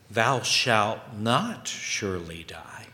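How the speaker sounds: slow, breathy whisper of a tempter; sly whisper. Retold or imitated. Quoting the devil's lie.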